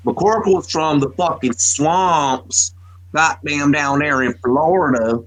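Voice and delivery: slow, drawn-out Florida swamp drawl; thick country Florida accent. Retold or imitated. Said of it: "he literally talked like that".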